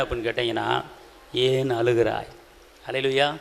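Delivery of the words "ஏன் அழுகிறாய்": low, tender question; gentle asking. Acted. Risen Jesus asks the weeping one, gently. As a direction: ask it softly, drawn from compassion.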